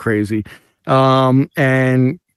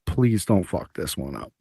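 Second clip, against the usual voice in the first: nervous plea; 7 semitones lower, 10 dB quieter than usual. Retold or imitated. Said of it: "and I say".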